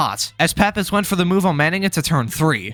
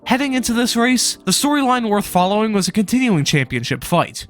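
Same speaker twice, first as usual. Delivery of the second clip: sore swollen throat, real; talking through a swollen sore throat. Real, not acted. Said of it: "so if I sound jacked up, that's because my throat is swollen".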